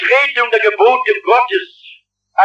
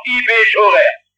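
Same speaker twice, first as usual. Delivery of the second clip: Swabian phrase. Retold or imitated. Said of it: "so schwäbische Weltanschauung".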